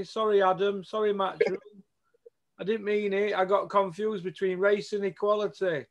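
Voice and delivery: lightly voiced grovelling pundit, cap in hand; grovelling Joe Gallagher. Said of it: "Joe Gallagher with cap in hand".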